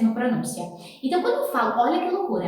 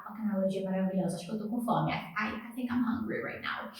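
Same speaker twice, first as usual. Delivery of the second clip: much softer, under-the-breath aside; quiet aside; 3 semitones lower, 10 dB quieter, faster than usual. Real, not acted. Teacher joking to herself about being hungry, quiet aside. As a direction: drop the volume as if talking to yourself.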